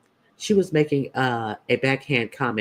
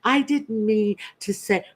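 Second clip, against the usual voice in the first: higher-pitched mimicked apology; mock apology; 7 semitones higher than usual. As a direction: imitate an insincere apology in a raised voice. Mimicking her apology, then rebutting.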